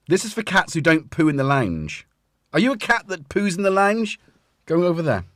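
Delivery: mock scolding.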